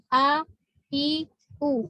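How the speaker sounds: no lead-in sound before "a, i, u"; abrupt onset. Shown as a demonstration. Teacher showing students what rakhawah is not, abrupt onsets. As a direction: start "a, i, u" straight on the vowel. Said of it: "nggak seperti gitu".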